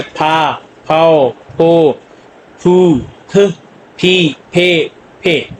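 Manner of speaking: "फा, फाओ, फो" with a puff of air on each फ; aspirated sound. Shown as a demonstration. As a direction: drill फ syllables separately, aspirated, vowels drawn out. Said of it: "aspirated sound भी देता है शुरू में". ("फा, फाओ, फो" में फ महाप्राण, स्वर लंबे)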